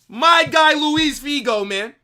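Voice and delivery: high, loud, slow shout of the name; stretched hype call. Real, not acted. Streamer calling out Figo's name, slow and loud. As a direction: drag the name out like a chant.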